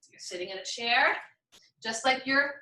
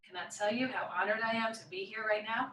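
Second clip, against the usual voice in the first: touched, near tears; 2 semitones lower, 7 dB quieter, faster than usual. Real, not acted. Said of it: "I'm almost gonna cry".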